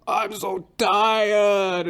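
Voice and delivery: put-on high, loud, drawn-out old man's groan. Barber suddenly groans mid-haircut, high moan. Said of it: "He goes".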